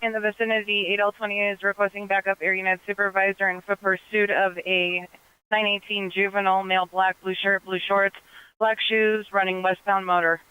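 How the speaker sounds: crackly military radio. Real, not acted. Officer on police radio.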